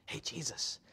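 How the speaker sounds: breathy secretive whisper. Retold or imitated. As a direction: whisper it so the others won't hear. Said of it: "it's almost kinda quiet".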